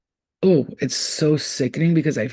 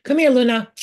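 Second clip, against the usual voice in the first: villainous call; 7 semitones higher, 5 dB louder than usual. Retold or imitated.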